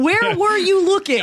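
high, laughing jab; laughing mock disbelief. Friend teasing a line cutter, laughing high. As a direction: tease them through a laugh.

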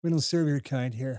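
stiff, cold refusal with scorn; snooty bigot. Retold or imitated. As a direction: sneer it like a snooty waiter. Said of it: "giving Danny Glover grief".

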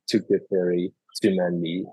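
ordinary talk

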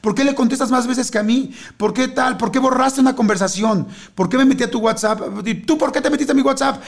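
high, fast, accusing partner; acting out a jealous lover's outburst; jealous accusation. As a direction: needle them with jealous suspicion. Acted jealous partner in fable.

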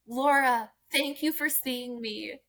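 imitating an earnest, relieved thank-you; heartfelt thanks. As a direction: draw out a grateful thank-you, lightly acted. Retells thanking the article's writer.

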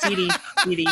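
high-pitched call through laughter; calling out to Siri. Real, not acted. Speaker to his girlfriend's phone assistant, calling out.

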